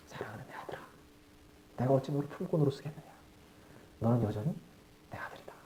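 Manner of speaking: father whispers through tears to his son; tearful whisper. Acted. Weeping father whispers to returning son, tearfully. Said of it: "눈물을 팍팍 쏟으면서".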